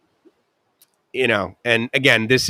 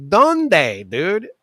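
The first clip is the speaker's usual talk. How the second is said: high mock-exasperated; joking plea; 9 semitones higher than usual. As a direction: plead with a laugh. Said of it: "I'm like".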